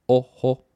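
"Oho" in two separate beats, o - ho; split into syllables. Shown as a demonstration. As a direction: break "Oho" apart with a gap after the o. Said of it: "two syllables".

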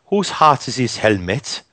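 slow, lightly put-on Welsh accent. Retelling an army friend's Welsh soldier, light Welsh accent. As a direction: give the Welsh soldier a slowed, mock Welsh lilt. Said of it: "Yeah, that's a good impression".

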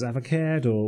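AVOCADO with a Limerick middle vowel, "ava-keh-do"; Limerick accent. Retold or imitated. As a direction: say "Avocado" as a Limerick local would. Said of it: "the way someone from Limerick would".

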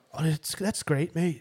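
attempted Scottish nurse's accent, drawn out. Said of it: "do it in his accent".

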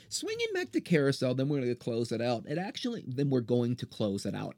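slurred, tripping over words. Real, not acted. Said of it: "I sound like a drunk".

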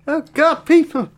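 high rising yell, ending in a laughing shriek; mock panic. Scots discovering survivors, building from high cry to laughing shriek.

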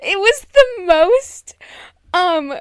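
high-pitched, real laughter breaking into the words; helpless laugh-talking. Real, not acted. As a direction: try to speak through laughter. Laughing too hard to finish.

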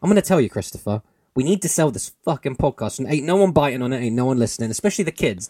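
lightly voiced boss pushing his ad team; pushy ad boss. Ad agency boss pressing Christopher for a pitch, lightly brash. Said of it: "you're pitching an ad for this at the ad agency".

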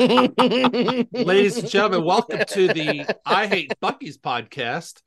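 slow, drawn-out opening like a show announcer; mock announcer. Host renaming the podcast, mock announcer delivery. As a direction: announce it grandly, as if presenting a show.

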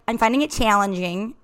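put-on retry in a Minnesota accent, "challenging" with long flat Minnesota vowels. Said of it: "more South African than I meant".

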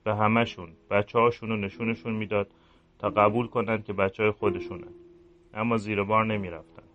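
a guilty priest brooding alone at night; quiet, regretful inner voice of a priest; remorseful priest. Acted.

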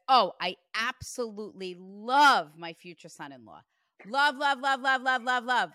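gushing, repeating love in a rapid run; lightly voiced mom overflowing with love. Medium relays mom adoring future son-in-law, gushing. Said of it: "Your mom says".

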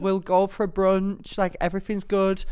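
high, loud, drawn-out coaxing; pleading voice notes. Retold or imitated. Drunk fan leaving Joel voice notes, pleading. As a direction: re-enact yourself wheedling a celebrity, voice up high.

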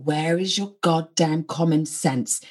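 slow, disbelieving complaint; slow exasperated. Retold or imitated. Wife wondering about husband's common sense, slow and exasperated. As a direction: drag it out, fed up.

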